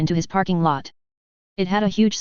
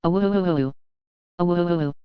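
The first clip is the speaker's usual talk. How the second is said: wolf howl; much slower than usual. A narrator's reading. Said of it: "he howled".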